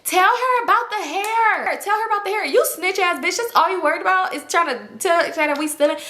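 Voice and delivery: angry yelling. Retold or imitated. Girl yelling at snitch.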